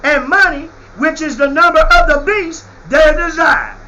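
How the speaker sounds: hammering the scripture home; fiery preaching. Acted. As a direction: preach it with full force. Preaching at full force.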